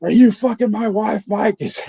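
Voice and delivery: hammed-up jealous accusation; accusing prank caller. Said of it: "And he's like".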